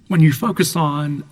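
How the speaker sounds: hoarse, scratchy throat. Real, not acted. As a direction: talk through a scratchy throat. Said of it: "pardon my scratchy voice".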